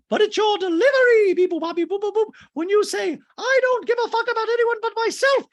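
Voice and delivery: shrieking, extremely high mock voice; hammed-up piercing impression; Dorit. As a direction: squawk it loud like a cartoon. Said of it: "And Dree goes".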